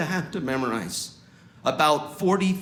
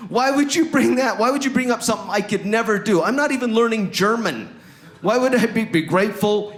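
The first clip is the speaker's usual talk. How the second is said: high, loud mock indignation; indignant outburst; 7 semitones higher, 4 dB louder than usual. Struggling learner answering "be grateful", indignant mock outburst. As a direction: protest loudly, pitch pushed up. Acted outburst at being told gratitude.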